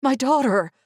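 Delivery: high desperate yell. A narrator's reading. Mother yelling about her daughter, high yell. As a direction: cry out for her child. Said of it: "I yelled".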